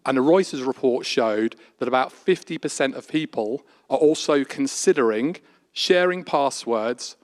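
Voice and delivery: put-on posh Oxford accent. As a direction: debate in a plummy Oxford accent. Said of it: "I'm gonna put on an Oxford accent".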